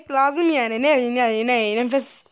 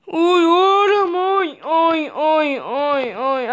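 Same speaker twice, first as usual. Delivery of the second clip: mock wail; 4 semitones higher, 5 dB louder, much slower than usual. Mock wailing.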